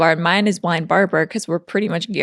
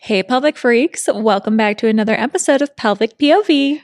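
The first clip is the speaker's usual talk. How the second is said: announcer voice. Acted. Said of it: "I'm gonna do it for real now".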